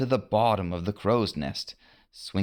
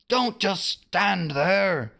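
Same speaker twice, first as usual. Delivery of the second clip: mild screamed order; 11 semitones higher, slower than usual. A narrator's reading. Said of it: "Hook screamed at his men".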